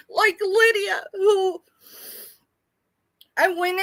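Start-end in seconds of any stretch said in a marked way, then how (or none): 0.1-1.6 crying. Real, not acted. Crying about a friend.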